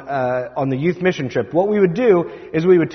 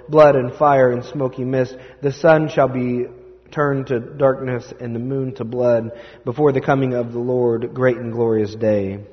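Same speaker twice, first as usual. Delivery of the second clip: scripture reading; 2 semitones lower than usual. Acted. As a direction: read it like the lectionary. Scripture reading before the sermon.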